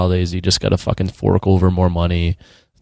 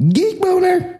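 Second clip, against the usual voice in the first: squeaky cartoon voice; slower than usual. Soundboard-style voice interjection.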